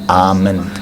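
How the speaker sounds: soft, slow whispered word; whispering. Acted. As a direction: mouth it in a hushed whisper. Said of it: "Either you're not a very good whisperer".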